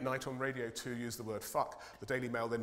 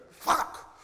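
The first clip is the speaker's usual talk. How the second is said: demo swear; 9 dB louder than usual. Shown as a demonstration. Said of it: "you go".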